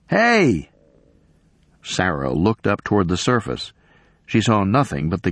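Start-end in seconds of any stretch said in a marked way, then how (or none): 0.1-0.7 high call from far off; distant yell. A narrator's reading. Stranger shouting down a crevasse, a far-off yell. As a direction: yell up from somewhere out of sight. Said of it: "she heard a voice yell".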